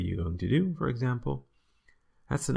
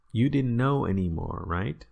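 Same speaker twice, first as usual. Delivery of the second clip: louder, knowing "You didn't know anymore, right?"; rhetorical teasing; 2 semitones higher, 4 dB louder than usual. Shown as a demonstration. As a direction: needle them with a rising "right?". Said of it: "a rhetorical tool".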